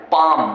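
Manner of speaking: पाम with no L before the M; silent L. Shown as a demonstration. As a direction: say पाम as "paam". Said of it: "एल का उच्चारण नहीं". (पाम में ल की आवाज़ नहीं)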